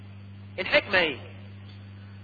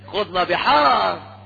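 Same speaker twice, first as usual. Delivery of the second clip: drawn-out sarcastic echo of the Sufi boast; slow mocking repeat; much slower than usual. Preacher mocks the extreme Sufis' boast, slow and sarcastic. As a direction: stretch it out to ridicule it. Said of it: "فغلاة المتصوفة يقولون".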